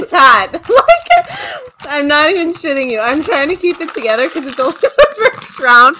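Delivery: laughing through burning mouth heat; mouth burning from spicy food. Real, not acted. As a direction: talk while the chili burns. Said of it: "my mouth is burning a little bit".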